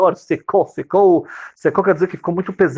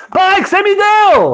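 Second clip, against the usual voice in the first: put-on much higher, louder, slow whiny child; child's voice; 7 dB louder, slower than usual. Baby son complaining to his father, high whiny child voice. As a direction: whine like a little kid at his dad.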